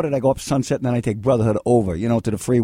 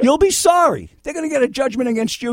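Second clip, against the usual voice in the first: ominous warning; 9 semitones higher than usual. Real, not acted. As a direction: warn him he'll regret it. Warning stubborn caller.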